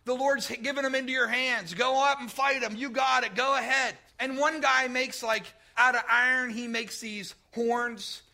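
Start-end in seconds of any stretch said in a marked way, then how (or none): 0.0-4.0 mock prophets' cheering. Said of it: "they're all saying".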